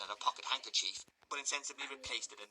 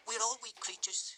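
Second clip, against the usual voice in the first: high, sighing lady's voice; matron voice; 12 semitones higher than usual. Acted. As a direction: sigh out a general truth.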